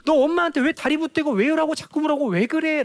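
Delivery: high, exasperated mock scolding; scolding mother. Mother telling off her clingy, questioning child, scolding. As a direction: tell the child off as a fed-up mom. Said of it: "그 행동 혼내기도 하죠".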